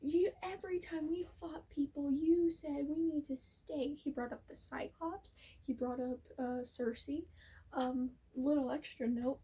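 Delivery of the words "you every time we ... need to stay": retold anger. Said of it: "he is all pissed".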